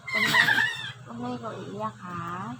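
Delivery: tender hushed plea to a little one. Real, not acted. Gently telling a child not to cry.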